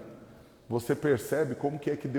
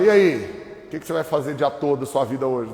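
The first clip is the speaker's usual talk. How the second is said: rude comedian voice; 5 dB louder than usual. Retold or imitated. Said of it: "dá patada no povo, assim, todo nervoso".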